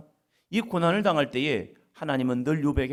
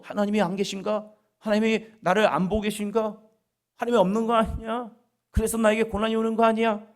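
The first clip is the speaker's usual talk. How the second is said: anguished doubt; 8 semitones higher than usual. Acted. Doubting cry before God.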